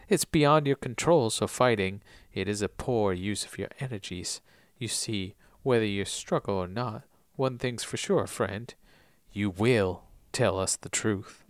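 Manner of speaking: low, very soft Southern menace. Acted. Recapper as Oldham to a struggling Saeed, soft Southern voice. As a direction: speak calmly and quietly in a Southern accent. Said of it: "in a soft southern voice".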